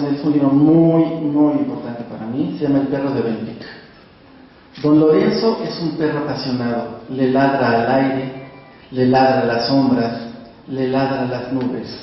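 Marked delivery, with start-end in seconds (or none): 4.8-11.9 steady, measured poem reading; poetry reading. Acted. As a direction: let the repeated lines land. Reads his poem aloud.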